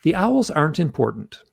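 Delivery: crisp, declarative statement of fact; very clear. Retold or imitated. Answering his hypnotherapist without skipping a beat, very clearly spoken. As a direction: state it with clear, firm certainty. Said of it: "I speak very clearly".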